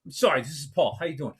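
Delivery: sudden drop to a casual, apologetic hello; quick hello. Retold or imitated. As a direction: imitate a ranter remembering his manners. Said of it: "you give me a quick hello".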